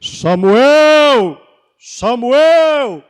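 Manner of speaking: booming voice calling out the name. Retold or imitated. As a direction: call out the name loud and full. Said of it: "E aí Deus falou assim".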